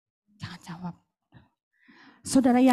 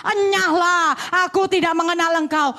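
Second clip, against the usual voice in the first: Lord rejecting; 4 dB louder than usual. Retold or imitated. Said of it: "Tapi Tuhan katakan".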